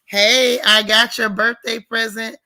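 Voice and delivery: loud, bright burst of thanks; happy loud greeting; excited shout-out. Real, not acted. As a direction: call it out to the gift giver. Excited thanks to a gift giver.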